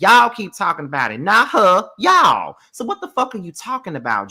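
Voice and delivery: jab every y'all at them; heated rant. Real, not acted. Host ranting at the cast, heated.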